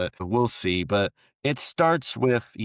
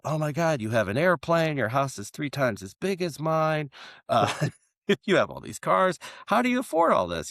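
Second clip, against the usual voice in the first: higher, gushing astonishment building up; amazed politician; 7 semitones higher than usual. Retold or imitated. American politician gawking at the Mexican's mansion, higher and amazed. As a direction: gawk at the bigger house. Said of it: "he goes".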